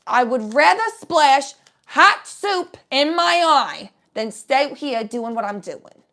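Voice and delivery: high, loud, slowed-down defiance; shouting down your own fear; defiant shout. Pretend. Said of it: "look it in the eyeball and say".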